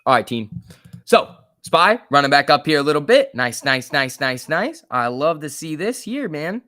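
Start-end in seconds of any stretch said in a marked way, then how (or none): 3.3-4.8 louder, rapid cheering; real excitement at the chart; excited. Real, not acted. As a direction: cheer the move on. Cheering stock move.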